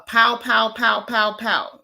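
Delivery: rapid spoken pow-pow gunfire; mock gunfire in words; imitated gunshots. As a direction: mimic a string of gunshots. Imitates gunfire before spelling shooting.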